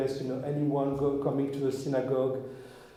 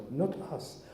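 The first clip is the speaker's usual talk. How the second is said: softer, musing to himself; quiet reflection; 5 dB quieter than usual. Real, not acted. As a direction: let the words sink in, softly. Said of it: "that's such a wisdom".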